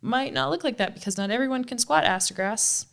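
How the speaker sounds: hammed-up impression of a patient coach covering for her; mimicking Zach. Teasing her cohost by mocking his coaching explanation, high mock voice. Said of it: "Zach has to backtrack and be like".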